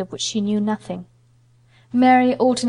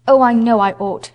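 louder, a distressed outburst; anguished cry; 7 dB louder than usual. Acted. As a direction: cry it out in regret. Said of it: "she cried".

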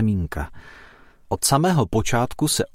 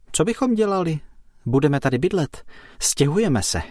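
reluctant; 6 semitones higher than usual. A narrator's reading. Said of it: "odpověděl neochotně".

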